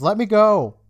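retold shout of a boy shoving a teacher off; demanding shout. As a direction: shove free and shout it. Struggling free from teacher's grip.

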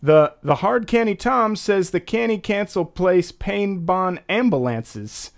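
hard canny Tom said as heavy local slang; thick Baltimore slang read aloud; Baltimorese read aloud. Shown as a demonstration. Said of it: "I'm gonna guess this one right".

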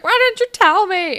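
mock panicked shout; freaking out. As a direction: hurl it in a panic. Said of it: "and he's like".

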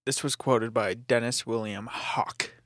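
whispering. Real, not acted. Whispered aside.

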